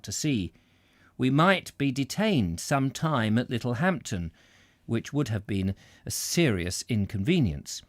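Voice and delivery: measured read-aloud book voice; steady storyteller reading; story narration. A narrator's reading. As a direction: read it like an old travelogue. Reads a Victorian travel book.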